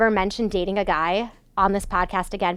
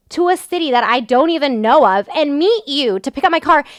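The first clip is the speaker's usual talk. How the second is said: indignant rant; 4 semitones higher, 3 dB louder than usual. Real, not acted. Ranting at driver about the Uber.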